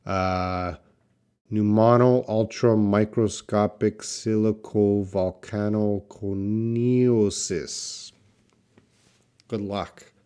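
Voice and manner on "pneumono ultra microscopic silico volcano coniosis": "pneumono ultra microscopic silico volcano coniosis" sounded out syllable by syllable, slowing at the end; long word attempt. Shown as a demonstration. Teacher trying a very long medical word for a student, slowly. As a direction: work through the long medical word carefully, piece by piece. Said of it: "Let's see if I can do it".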